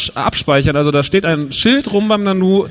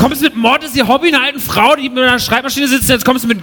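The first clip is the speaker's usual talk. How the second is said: mock outrage; 5 semitones higher than usual. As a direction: pretend to be hurt that your film was skipped. Empört über vergessene Filme. (gespielte Empörung, höher und lauter)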